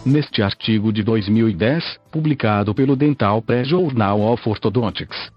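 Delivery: robotic synthesized text-to-speech voice. Real, not acted. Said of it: "falo através desta voz sintetizada". (voz sintetizada de computador antiga)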